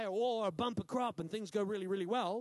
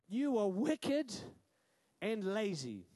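stern master; slower than usual. Acted. Master condemning his servant, slow and stern. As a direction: pronounce judgment on the lazy servant.

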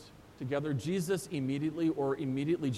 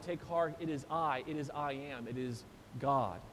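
deepening reverent fade; 4 semitones lower, 5 dB quieter than usual. Shown as a demonstration. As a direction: lower and softer with each phrase.

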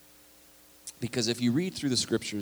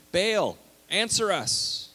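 slow, high, drawn-out cry to Baal; shouted plea; 10 semitones higher, 4 dB louder, much slower than usual. Retold or imitated. Prophets of Baal crying out to their god, mock shout. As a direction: call out each word to a silent god. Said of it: "they shouted".

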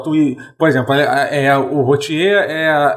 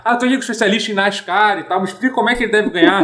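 higher, faster TV host voice; sports commentator voice; 4 semitones higher, faster than usual. Retold or imitated. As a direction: play an eager race commentator. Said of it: "um comentarista sobre esporte".

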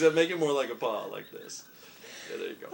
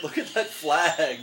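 laughing out the words, slower; 3 semitones higher, 6 dB louder, slower than usual. Real, not acted. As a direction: crack up while pointing it out. Laughing at the shirt.

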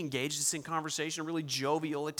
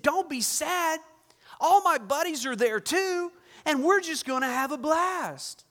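high, loud carefree joking; breezy and gleeful, brushing off worry; jovial owner; 11 semitones higher, 7 dB louder, slower than usual. Retold or imitated. Owner jokes about hell.

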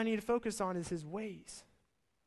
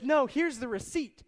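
exasperated proof; 5 semitones higher, 5 dB louder than usual. Retold or imitated. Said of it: "He's like".

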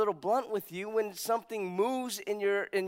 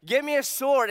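commanding king; 7 semitones higher, 7 dB louder than usual. Retold or imitated. King's command in retold story.

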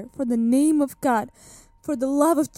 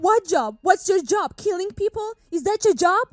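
higher, accusing questions; angry questions; 5 semitones higher than usual. Acted. Accused woman challenging the judge's job, higher and accusing. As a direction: throw the questions at him, incredulous. Accused confronts interrogator about killing.

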